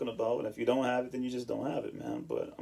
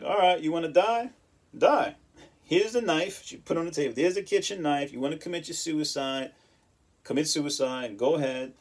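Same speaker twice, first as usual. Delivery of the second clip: imitating grandmother, higher and louder; grandmother's tough love; 4 semitones higher, 4 dB louder than usual. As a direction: dare him as a blunt grandma would. Grandmother offering knife, tough love.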